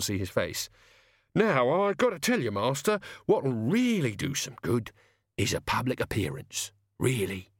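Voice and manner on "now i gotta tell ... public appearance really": lightly voiced servant, persuading; coaxing servant. Servant pitching public appearances to his master, coaxing. Albert coaches Death.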